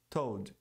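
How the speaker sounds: "told" said like "toad"; dropped L. Shown as a demonstration. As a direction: leave the L out of "told". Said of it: "Se você não pronunciou a L".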